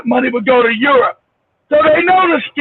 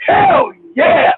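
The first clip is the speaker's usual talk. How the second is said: very high-pitched cry of approval; proud cheer; 11 semitones higher than usual. Retold or imitated. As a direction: whoop it in proud agreement. Retelling own proud reaction.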